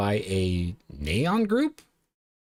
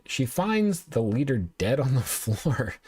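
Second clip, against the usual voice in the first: slow down and crack up by the end; stifled laughing; 3 semitones higher, slower than usual. Real, not acted. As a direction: laugh breaking into the last words. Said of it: "I'm not laughing 'cause it's funny".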